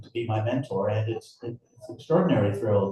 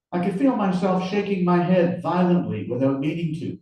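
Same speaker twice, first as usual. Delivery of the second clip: raised-pitch first-person storytelling; story narration; 7 semitones higher, 3 dB louder than usual. A narrator's reading. Author reading his hero's inner reaction, animated narration. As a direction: read it out to a live audience. Reads his novel aloud.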